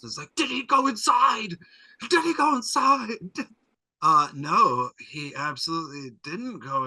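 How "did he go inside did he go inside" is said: high wailing ghost voice, crying it out; full-on poltergeist. Retold or imitated. Carly Beth haunting Chuck, a high ghostly wail. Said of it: "Carly Beth does a full-on poltergeist".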